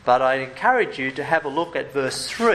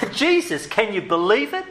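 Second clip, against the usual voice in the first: higher, mock-incredulous exclaim; mock disbelief; 5 semitones higher than usual. Preacher to congregation, mock disbelief. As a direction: play up the shock, eyebrows raised. Mock outrage at Jesus welcoming.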